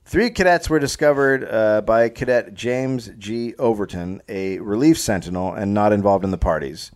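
measured, read-aloud storyteller delivery; story narration. A narrator's reading. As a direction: narrate the tale from the page.

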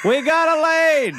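high, loud laughing cry of triumph; laughing shout. Acted. Mocking the players cheering their cleared path, laughing shout. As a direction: crow it through laughter.

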